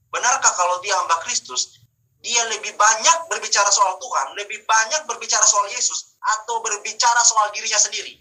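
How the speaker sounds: forceful, challenging pulpit questioning; emphatic preaching. Real, not acted. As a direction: press the question on the congregation.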